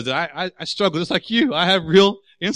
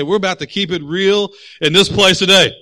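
rallying call-out; 3 semitones higher, 6 dB louder than usual. Shown as a demonstration. Leads congregation in a call-out.

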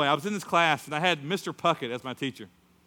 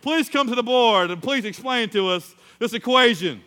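loud, higher teacher command; imitated teacher, raised and projecting; teacher summoning student; 8 semitones higher, 8 dB louder than usual. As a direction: call him up before the whole class. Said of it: "He goes".

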